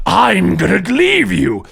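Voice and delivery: slow, alien, drawn-out threat; symbiote voice in your head. Acted. Carnage speaking inside the hero's head, slow and eerie. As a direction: let it creep out slowly and strangely. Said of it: "Carnage says in your head".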